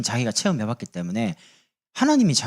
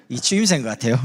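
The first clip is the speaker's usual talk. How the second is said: normal talking voice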